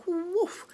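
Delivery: high, sudden woof sound effect; imitated whoosh. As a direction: mimic a bird whooshing in. Sound of bird flying in.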